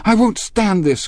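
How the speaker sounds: very high, loud outburst; distressed cry. A narrator's reading. Daisy interrupts the quarrelling men, crying out. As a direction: cry out at breaking point. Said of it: "cried Daisy".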